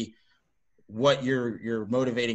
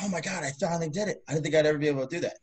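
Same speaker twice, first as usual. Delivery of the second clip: higher-pitched, breathless-with-joy quote of a first success; amazed disbelief; 4 semitones higher, faster than usual. Retold or imitated. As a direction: imitate someone thrilled at their own achievement. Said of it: "when they're like".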